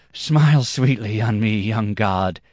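a touch of panting after the dance. A narrator's reading. Dancer begs the young god's favour, lightly panting. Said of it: "though he panted from the dance".

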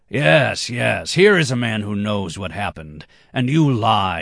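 high, loud heated scoffing; heated retort. Acted. Red-haired man scoffs at his rival, loud and heated. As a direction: shout him down across the table.

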